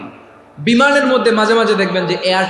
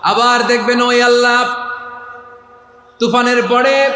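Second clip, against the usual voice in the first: melodic preaching; 3 semitones lower, slower than usual. Real, not acted. Preacher on sailors forgetting Allah after the storm, singsong preaching.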